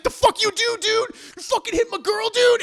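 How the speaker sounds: high, hammed-up outraged dude; mock angry confrontation. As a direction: confront him in exaggerated outrage. Man confronts cyclist who hit her.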